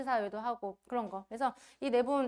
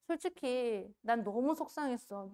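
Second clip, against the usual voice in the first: tearful coach; 4 dB quieter, slower than usual. Retold or imitated. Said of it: "이러면서 막 울더라고요".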